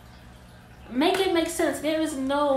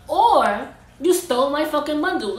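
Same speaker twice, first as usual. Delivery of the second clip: angry; 3 semitones higher, 6 dB louder than usual. Real, not acted. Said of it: "Because I'm getting mad".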